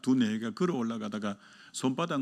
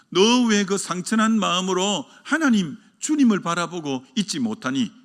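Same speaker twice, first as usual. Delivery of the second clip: God's rebuke; 3 semitones higher, 4 dB louder than usual. Retold or imitated. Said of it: "하나님 이렇게 책망한 거예요".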